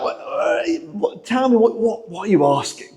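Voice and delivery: wary, halting parental suspicion; about to tell off. Acted. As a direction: stumble into it, bracing to say no. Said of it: "you're about to get told off with that".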